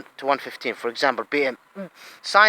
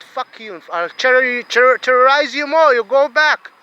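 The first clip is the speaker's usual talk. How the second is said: raised, defiant shout-back; retold retort; 4 semitones higher, 4 dB louder than usual. Man retelling how he answered an attacker, loud and defiant. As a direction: throw the insult back hard. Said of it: "I said".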